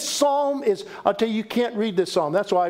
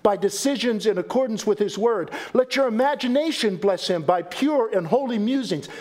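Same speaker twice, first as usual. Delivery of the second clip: formal quotation reading. Acted. Reads quotation aloud.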